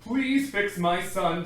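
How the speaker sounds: slow, loud, insistent dad; demanding father. Acted. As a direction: demand it firmly. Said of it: "demanded Crispin's father".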